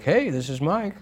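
high, breezy guy answering the phone; casual phone greeting. Retold or imitated. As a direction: pop in as the guy on the line. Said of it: "it's like".

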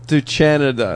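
Canada with ch for the first sound; Italianized Canada. Retold or imitated. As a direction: echo Canada as "CHAN-a-da". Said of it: "That's how they say it there".

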